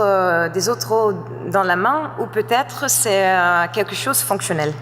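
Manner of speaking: non-native French, careful and halting; a learner's accent in French; foreign accent in French. Real, not acted. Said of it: "mon français n'est pas très bien".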